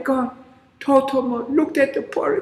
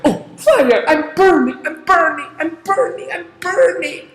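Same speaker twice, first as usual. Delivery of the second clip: burning giant; 5 semitones higher, 4 dB louder than usual. Acted. Giant on fire.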